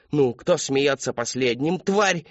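shouting at himself. Acted. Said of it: "кричал он сам себе".

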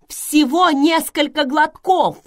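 high, loud, slow protest; shouted self-defence, drawn out; shouting. A narrator's reading. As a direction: cry it out in indignation. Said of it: "закричала Селия".

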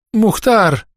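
high, strained call to the dog; groaning cry. A narrator's reading. Old woman calls her hurt dog while rising, groaning cry. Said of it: "закряхтела Матрёна".

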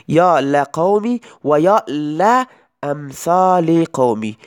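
slow یا لقومی و یا لامثال قومی with an open "la" on both lams; example recited slowly. Shown as a demonstration. Teacher to students, reciting the example slowly for the fatha. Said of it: "مانند این مثال".

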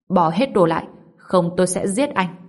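icy, threatening command; a cold threat from an ice puppet. Acted. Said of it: "Con rối lạnh giọng nói".

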